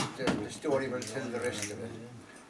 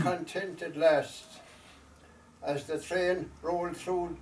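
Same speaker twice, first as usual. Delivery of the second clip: slow, measured storytelling verse with long pauses; unhurried recital, letting each phrase settle; poem recitation; 2 semitones higher, slower than usual. Acted. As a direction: recite it line by line as a wistful Irish ballad-poem.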